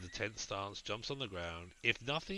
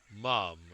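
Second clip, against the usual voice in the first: Mum punched louder than the words round it; emphasis on Mum; 6 dB louder than usual. Acted. Girl stressing Mum to the druid, emphatic. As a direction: lean hard on Mum. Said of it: "she puts a great deal of emphasis on this word".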